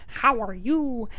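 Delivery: high parrot-like crow imitation; talking crow. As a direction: mimic the crow's squawky greeting. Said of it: "There's this one crow that says".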